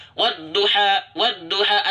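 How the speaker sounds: wad-duha said flatly without rounded lips; careless reading. Shown as a demonstration. Teacher imitating a careless reader, flat lips. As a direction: read wad-duha lazily. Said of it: "Contoh seperti ini".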